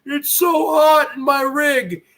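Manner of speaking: slow, whiny mock complaint; mock complaining. Mocking a friend who complains of the heat, slow whine. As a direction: drag it out like a whiner. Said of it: "You keep complaining".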